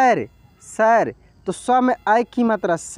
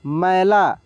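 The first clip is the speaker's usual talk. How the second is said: slow syllable reading; 3 semitones lower, much slower than usual. Shown as a demonstration. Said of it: "म में आय की मात्रा मै".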